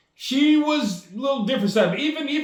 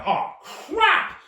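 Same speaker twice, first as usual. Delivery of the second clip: caught off guard; 10 semitones higher than usual. Retold or imitated. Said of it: "I'm like".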